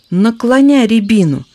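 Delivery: чётко командуя; crisp commands. Acted. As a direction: direct the rescue firmly. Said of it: "чёткие команды".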